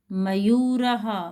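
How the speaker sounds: मयूरः said slowly with a breathed ह at the end; carefully drawn-out मयूरः; slow Sanskrit demo. Shown as a demonstration. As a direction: sound out मयूरः for children. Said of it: "तो देखिए कैसे बोलेंगे इनको".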